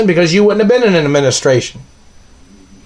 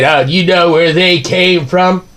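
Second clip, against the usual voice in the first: slow, sneering put-on voice of the government people; mocking government voice; slower than usual. Ranting at the satellite man, mimicking government people in a slow mocking voice. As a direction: drag it out like you're mimicking the officials.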